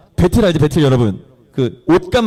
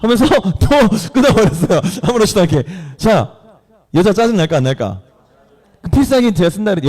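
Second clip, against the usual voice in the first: ordinary talk, nothing marked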